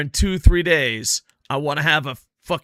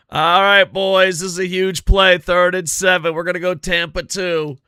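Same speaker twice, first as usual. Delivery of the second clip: excited play call; 3 semitones higher, 5 dB louder than usual. Real, not acted.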